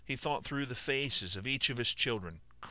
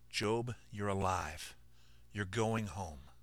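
reassuring; 3 dB quieter, much slower than usual. Acted. Brother comforts Job.

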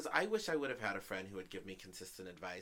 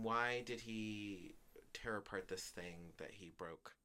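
ordinary delivery

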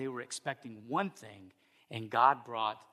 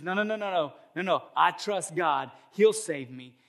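rapid-fire no's, pitched up; higher, louder stubborn protest; insistent refusal; 5 semitones higher, 4 dB louder than usual. Acted. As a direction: refuse the rescue with acted certainty. Man again refuses rescue.

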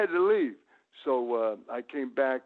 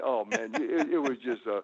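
ordinary talk

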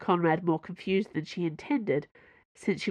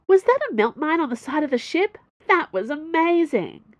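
much higher, loud and awed; thrilled kid; 10 semitones higher, 5 dB louder than usual. Acted. Young engineer marvels at the mine, high and thrilled. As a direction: gush with wide-eyed awe.

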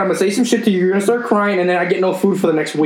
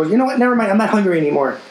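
mocking girlfriend; 4 semitones higher than usual. Mocking girlfriend quitting argument.

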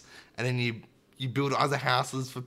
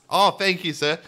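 mock gushing thanks; 6 semitones higher, 7 dB louder than usual. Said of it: "You're like".

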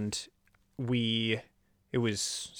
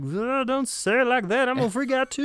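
high, pleading mock fright; mock panic; 5 dB louder than usual. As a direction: beg her not to make it worse, voice pitched up. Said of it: "and I was like".

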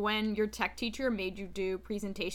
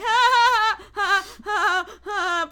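nervous laughter; 8 semitones higher, 9 dB louder, slower than usual. Retold or imitated. Class laughs uncomfortably.

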